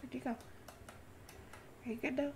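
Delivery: slow breathy whisper. Real, not acted. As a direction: whisper it gently and slowly. Sneaking near the creatures.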